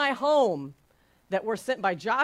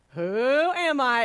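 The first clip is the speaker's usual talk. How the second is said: announcer question; 5 dB louder, slower than usual. Shown as a demonstration. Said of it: "I will ask this beautiful question".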